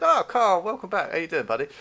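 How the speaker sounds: high, loud hail to a buddy, acted; mock friendly greeting. Judge stopping proceedings to greet Carl, mock friendly greeting. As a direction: imitate an overjoyed welcome, easing off at the end.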